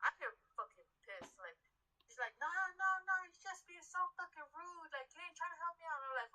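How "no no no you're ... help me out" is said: mock shrill customer. Customer shouting back.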